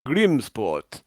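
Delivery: deliberate all-knowing voice with falling phrases; Big Bird. Acted. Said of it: "the voice comes by and goes".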